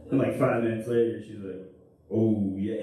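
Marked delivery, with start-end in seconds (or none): 2.1-2.8 higher voice. Retold or imitated. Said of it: "when I do the higher voice".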